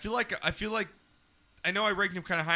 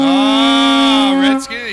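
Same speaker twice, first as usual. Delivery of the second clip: loud, high mock outrage; mock shock; 9 semitones higher, 15 dB louder, much slower than usual. Real, not acted. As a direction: cry out as if scandalized by the pick. Mock outrage at host's pick.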